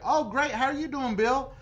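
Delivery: acted super-friendly caller; extra nice. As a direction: lay on the niceness for the agent. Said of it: "The nicest you've ever been".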